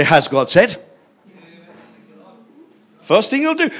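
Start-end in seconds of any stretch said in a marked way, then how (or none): 0.0-0.8 sly enemy. Acted. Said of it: "the enemy will say".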